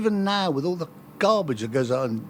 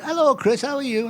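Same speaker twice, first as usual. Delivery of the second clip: imitating a Carlisle radio interviewer, pitched up; Carlisle accent; 5 semitones higher than usual. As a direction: greet brightly in a put-on Carlisle accent. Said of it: "slipped into my Carlisle accent".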